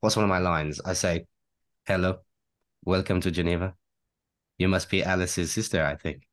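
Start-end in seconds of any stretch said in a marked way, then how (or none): 1.9-6.2 a light Swiss-French accent, a touch of Poirot. Shown as a demonstration. Actor gives a podcast listener treat in a mild Swiss-French accent. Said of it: "how do you do a Swiss-French accent".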